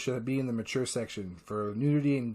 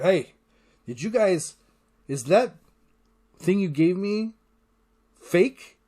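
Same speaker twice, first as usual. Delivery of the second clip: rising higher and louder to a shocked question; alarmed realization; 4 semitones higher, 5 dB louder than usual. Retold or imitated. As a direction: builds from a call to a high, loud alarm. Pornstache realizing he was poisoned.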